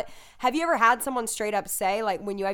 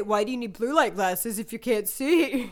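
laughing mock question. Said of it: "they would say".

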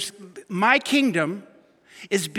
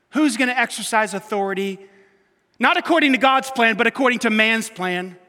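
rising, louder preacher's punch; preaching loud; 3 semitones higher, 6 dB louder than usual. Real, not acted. Pastor hammering the point to the congregation, loud. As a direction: drive the contrast home from the pulpit.

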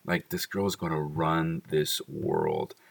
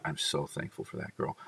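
soft whisper; 6 dB quieter than usual. Real, not acted. Quiet thanks for daughter.

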